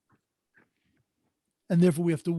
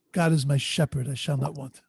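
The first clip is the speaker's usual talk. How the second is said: sincere reading; 4 semitones lower than usual. Retold or imitated. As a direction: speak the verse as to someone you truly know. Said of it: "But I know the shepherd".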